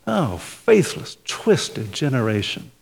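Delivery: slow, soft, loving rebuke. Retold or imitated. Jesus gently rebuking his slow disciples, soft and slow. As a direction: say it with love, not anger. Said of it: "when Jesus says".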